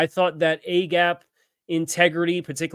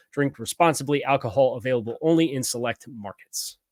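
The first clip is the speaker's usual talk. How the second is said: ad read. Acted. Sponsor ad read.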